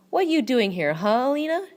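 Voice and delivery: high, loud demand rising sharply at the end. A narrator's reading. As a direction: demand an answer from the maid. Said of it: "she demands".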